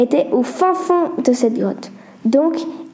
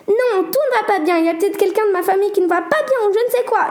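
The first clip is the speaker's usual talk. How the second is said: mild mock yell; 8 semitones higher than usual. Sarah snapping at Corentin, high fast panic. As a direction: rush it out in high alarm. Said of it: "hurla Sarah".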